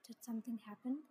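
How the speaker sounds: hushed, voiceless whisper. A narrator's reading. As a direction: whisper it privately into a friend's ear. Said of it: "Myung whispered in my ear".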